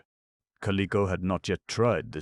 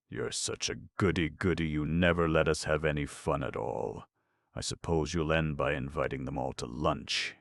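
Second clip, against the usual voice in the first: bitter. Acted. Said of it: "he finished bitterly".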